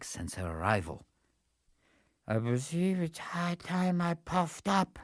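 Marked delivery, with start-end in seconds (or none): 2.3-5.0 soft, slow feeble voice; a frail weakling barely rousing; weak announcement. Acted. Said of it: "announced to them weakly".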